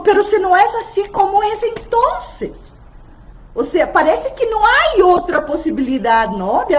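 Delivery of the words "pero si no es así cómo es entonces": quick, high puzzled question; imitated question. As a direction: play the baffled colleague, pitched up. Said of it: "Alguien otro día preguntó".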